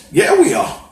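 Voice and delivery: loud, high, defiant yes; rallying shout, full conviction; emphatic shout. Real, not acted. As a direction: shout it back at the crowd. Rhetorical answer to own question.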